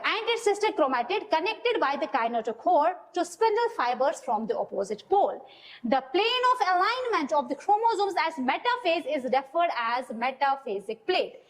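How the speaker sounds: slow, deliberate reading of the book's lines; slow textbook reading. Acted. Teacher dictating textbook lines to students, slowly. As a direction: read each word out slowly for dictation.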